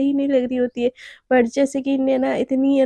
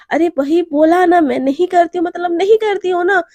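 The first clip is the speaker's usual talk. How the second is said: exasperated; 3 semitones higher, 5 dB louder than usual. Acted. Naina tired of the question, exasperated and loud. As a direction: snap it out impatiently.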